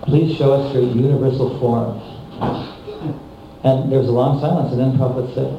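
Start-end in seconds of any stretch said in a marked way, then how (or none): 0.0-2.0 put-on Indian accent. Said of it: "he sounded like he had an Indian accent".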